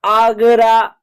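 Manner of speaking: आगरा with open 'aa' at both ends; long AA in Agra. Shown as a demonstration. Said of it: "ए का आ उच्चारण हो रहा है". (आगरा में साफ़ लंबा आ)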